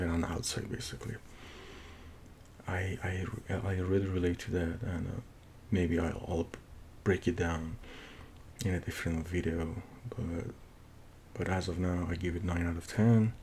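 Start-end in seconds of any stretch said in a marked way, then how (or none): 2.7-13.3 English with a thick Persian accent. Real, not acted. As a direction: speak English with an Iranian accent. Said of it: "my thick Persian accent".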